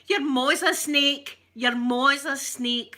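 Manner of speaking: mock insult. Mock insult fight talk.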